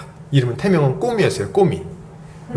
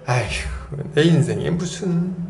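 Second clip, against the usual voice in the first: resigned sigh. Retold or imitated. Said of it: "이렇게 하고 있는 거예요".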